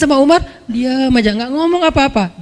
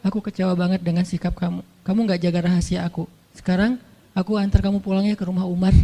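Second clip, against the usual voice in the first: much softer, low and heavy-hearted; quiet disappointment; 3 semitones lower, 6 dB quieter than usual. Acted. Husband tells his wife he is disappointed, softly hurt. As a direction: let the hurt sink the voice down. Prophet confronting Hafsah, disappointed.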